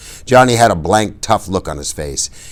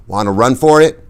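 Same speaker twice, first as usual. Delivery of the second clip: urgent, higher question; a quick anxious whisper-like dare; a touch of fear; nervous; 7 semitones higher, 5 dB louder than usual. A narrator's reading. Nervous boys in danger.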